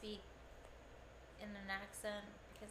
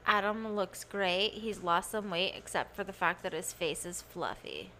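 louder mock announcement; announcing; 4 semitones lower, 7 dB louder than usual. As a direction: proclaim it to the audience. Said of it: "tell everybody I'm not fat now".

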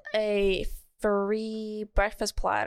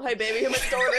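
laughing; 3 semitones higher, 3 dB louder, faster than usual. Real, not acted.

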